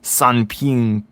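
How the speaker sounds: slow careful "Sanping Kula Shiwu Kwai" in learner Mandarin; Chinese practice. Shown as a demonstration. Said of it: "I'm gonna do it without looking".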